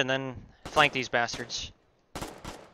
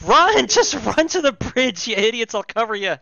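high urgent yell; shout; 6 semitones higher, 5 dB louder than usual. Real, not acted. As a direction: yell at them to run. Urging teammates to flee.

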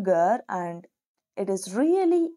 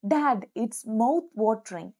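savoring compliment. Shown as a demonstration. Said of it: "Then you would say".

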